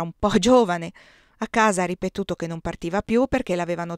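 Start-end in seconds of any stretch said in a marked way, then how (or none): 0.0-0.9 breaks into a laugh on the word; a wry laugh through the excuse; laughing ironically. Acted. Telling a friend the bitter excuse, laughing. Ironic reason given for rejection.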